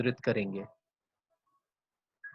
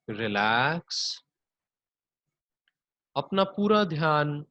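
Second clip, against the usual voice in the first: unhurried body-scan meditation voice; guided yoga nidra. Acted. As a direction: draw out each "relax", lead them gently into rest.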